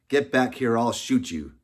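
shouted threat. Acted. Frederick threatening someone who left the road, shouted. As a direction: call out a sharp warning, loudly.

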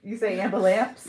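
"ambulance" with a P, am-buh-lamps; loud question, "ambulance" ending in -amps; echoed pronunciation. Retold or imitated. Querying friend's way of saying it, echoed pronunciation. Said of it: "With a P?".

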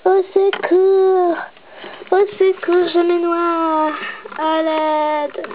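drowning cry for help; calling for help. Pretend.

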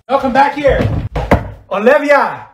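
high, loud indignant call; calling after someone. Acted. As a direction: call her back sharply. Calling after departing friend.

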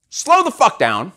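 slow, drawn-out command. Shown as a demonstration. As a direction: ease right off the pace as you say it. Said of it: "this is me slowing down".

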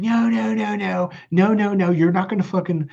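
mock yell, held back in volume; retold yelling. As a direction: shut him down with rapid-fire high no's. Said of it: "I'm, like, yelling at him".

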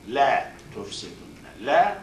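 لَا تُفْسِدُنَّ with the doubled noon pressed hard; emphatic recitation. Shown as a demonstration. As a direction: lean on the final nunn of تُفْسِدُنَّ. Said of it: "noon at the bottom is noon at ta'kid".

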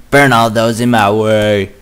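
slow, loud villainous declaration; dramatic proclamation. Acted. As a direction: proclaim it like a fire witch.

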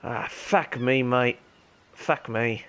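put-on gamer holding a posh English RP accent. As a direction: stay in a lightly done British RP voice. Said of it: "I should have chosen a different accent for my, for my R P character".

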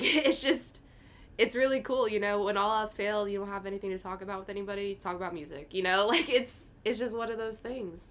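high, loud and laughing through the words. Real, not acted. Laughing aside about music.

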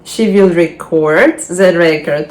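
record the verb stressed "re-CORD", the record the noun "REC-ord"; contrasting stress. Shown as a demonstration. Teacher showing students stress on record versus the record. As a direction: shift the stress between the two records. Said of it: "як важливо робити правильний наголос".

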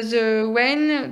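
slow, loud English in a French accent; bad English accent. Real, not acted. Vlogger recommends a series, bad English accent. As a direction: stretch out "Wen" in clumsy French-accented English. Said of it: "désolée pour mon accent anglais dégueulasse".

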